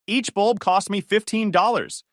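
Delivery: high, loud itemized rant; spitting fury. Acted. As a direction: spit out every cost. Joyce tallies costs.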